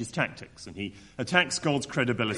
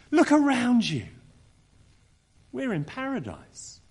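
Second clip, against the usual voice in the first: bright, eager invitation; 9 semitones higher than usual. Acted. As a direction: urge the snake to see paradise. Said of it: "Here's what she could have said".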